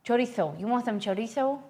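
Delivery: "chorizo" with a lisped th for the z; playful Spanish th in "chorizo"; put-on Spanish pronunciation. Shown as a demonstration. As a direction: offer "chorizo" the Spanish way, cho-REE-tho.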